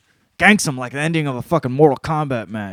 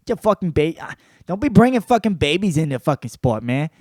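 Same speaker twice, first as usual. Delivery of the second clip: higher, agitated fighter impression; Nick Diaz impression; 5 semitones higher, 4 dB louder than usual. Imitating fighter asked about his baby, agitated put-on voice. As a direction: put on a griping fighter's voice, pitched up. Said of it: "or Nate Diaz impression".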